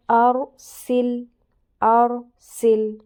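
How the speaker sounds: ارسل stretched very slowly and a bit loud, with a heavy ر; slow Quran recitation. Shown as a demonstration. Teacher asks how the ر was read, slow heavy recitation. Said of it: "میں نے را کو کیسا پڑھا؟ موٹا".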